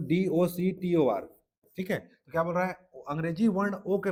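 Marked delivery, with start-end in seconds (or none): 0.1-1.3 slow, deliberate spelling of डी ओ सी टी ओ आर; spelled out letter by letter. Shown as a demonstration. Teacher spells out doctor slowly for students, deliberate. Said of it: "जैसे डॉक्टर में लिखो".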